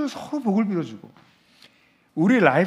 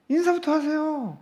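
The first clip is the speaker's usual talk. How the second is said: 인사부터 pitched much higher, slow, falling; higher repeat; 10 semitones higher than usual. Shown as a demonstration. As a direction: lift 인사부터 high and slow. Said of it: "예?".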